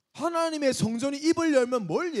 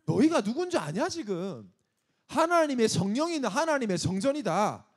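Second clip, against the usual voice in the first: acted frustrated rebuke; a touch of impatient insistence; exasperated. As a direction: drive it home with mild exasperation. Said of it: "답답해가지고".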